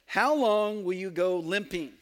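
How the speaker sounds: reading the line while cracking up; words half-swallowed by a real laugh; laughing through it. Real, not acted. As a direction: giggle through the question as it gets the better of you. Quote breaks into laughter.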